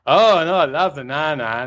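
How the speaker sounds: teasing imitation of a Southern accent; put-on Southern twang, taking the mickey; the speaker mocking Southern accent. The speaker mimics the golfer to tease him, mock Southern accent. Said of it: "he starts taking the mickey out of him".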